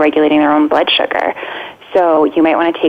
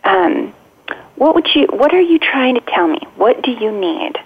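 put-on higher, lilting and playful to an upset child; 6 semitones higher than usual. Shown as a demonstration. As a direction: coax a mad kid gently with a light, bouncy tone. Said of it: "you wanna be playful and say".

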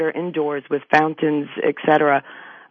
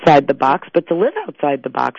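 louder, punchy line for the crowd; playing to the audience; 6 dB louder than usual. Real, not acted. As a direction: sell it to the audience with energy. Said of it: "Have fun with the audience".

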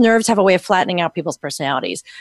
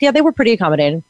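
fast, offhand and flat; breezy mock shrug; matter-of-fact; much faster than usual. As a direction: toss it off like it's no big deal. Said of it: "you were matter of fact".

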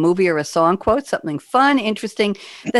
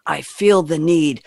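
terrible Tom Cruise; slower than usual. Retold or imitated. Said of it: "Oh, that was a terrible Tom Cruise".

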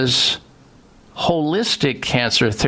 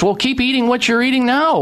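mock dismissive doctor; 10 semitones higher, faster than usual. Mocking the oncologist's dismissive answer.

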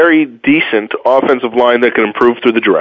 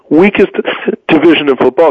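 hiccuping mid-sentence; words broken by a hiccup; 4 semitones higher than usual. Real, not acted. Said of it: "Excuse me, I got the hiccups".

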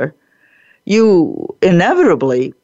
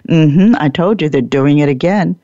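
knowing watcher; 3 semitones lower than usual. Retold or imitated. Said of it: "and they're saying".

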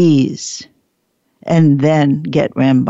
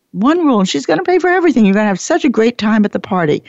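high, fast, gushing promise; breathless mock enthusiasm; excited sales pitch; 5 semitones higher, much faster than usual. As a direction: sell it like a too-good deal.

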